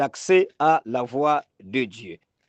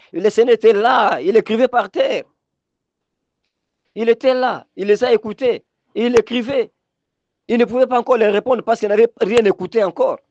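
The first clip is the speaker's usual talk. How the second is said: higher-pitched sermon storytelling; insistent preacher recounting scripture; animated preaching; 6 semitones higher, 3 dB louder than usual. Real, not acted. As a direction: tell the Bible scene with urgency.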